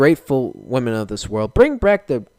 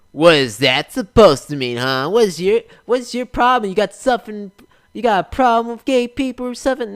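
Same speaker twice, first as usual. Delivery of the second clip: mock offended listener; 8 semitones higher, 5 dB louder than usual. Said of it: "mocking an offended listener".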